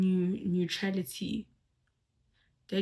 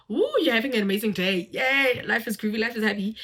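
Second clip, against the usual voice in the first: louder, faster carefree glee; mock happy teen; 2 semitones higher, 5 dB louder than usual. Speaker to audience, mimicking a giddy carefree teen. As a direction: play a giddy teen having a great day.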